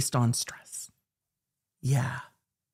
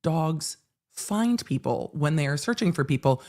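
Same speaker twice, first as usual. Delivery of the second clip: lecturing retort; 6 semitones higher than usual. Retold or imitated. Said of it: "I'm like".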